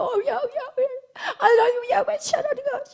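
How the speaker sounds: wailing prayer. Retold or imitated. Preacher imitating Hannah wailing before God, crying. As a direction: mimic a woman sobbing out her prayer. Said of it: "너무 통곡하면서".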